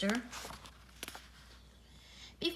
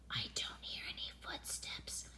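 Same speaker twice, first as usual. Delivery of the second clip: very soft, hushed whisper; 12 dB quieter than usual. A narrator's reading. Boy listening for aliens outside the tent, whisper. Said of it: "whispered Arthur".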